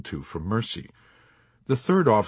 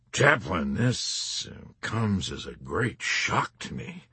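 heavy lamentation; slower than usual. Acted. Major feigning disappointment in the chaplain, slow mock lament. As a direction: lament it slowly, like a let-down father. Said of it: "in a tone of heavy lamentation".

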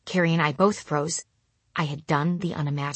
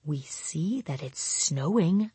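quiet sarcastic thought; 7 dB quieter, slower than usual. Retold or imitated. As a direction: think it with dry irritation. I thought to myself.

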